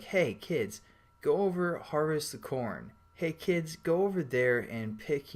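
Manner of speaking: bossy parent shouting out chores; calling out to kids. Pretend. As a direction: holler orders out to the field. Dad calling kids to work.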